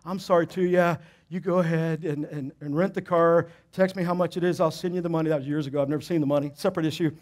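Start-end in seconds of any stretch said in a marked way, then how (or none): 0.0-5.3 softened reply. Retold or imitated. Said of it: "when you soften up".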